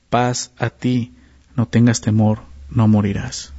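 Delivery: paz a ti drawn out very slowly and gently; slow reassuring. Shown as a demonstration. Preacher voicing God's calm answer to a frightened Gedeón. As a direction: let God's comfort land word by word, calmly. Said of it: "¿Te das cuenta de esto?".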